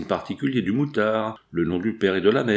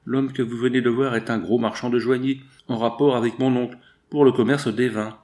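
weeping. Acted. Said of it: "répondit en pleurant".

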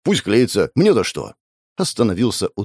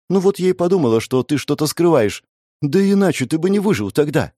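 put-on a girl's voice, higher pitched; lightly voiced young woman; 7 semitones higher than usual. A narrator's reading. Girl explains to her captor, in a lightly higher young woman's voice. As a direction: speak up as the frightened girl.

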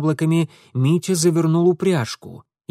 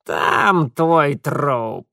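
hoarse grumbling creature; 4 dB louder, much slower than usual. A narrator's reading. The red creature grumbles directions to Mitya, hoarse and slow. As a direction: croak the order like an otherworldly creature. Mara continues.

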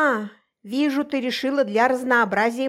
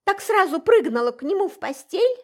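higher, louder accusation; accusing jab; 10 semitones higher, 4 dB louder than usual. Acted. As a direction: throw the accusation at her. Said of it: "наседала она на меня".

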